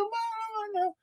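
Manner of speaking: very high, soft, hedging voice; noncommittal. Retold or imitated. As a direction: dodge the question in a tiny high voice. Imitates producers' noncommittal answer.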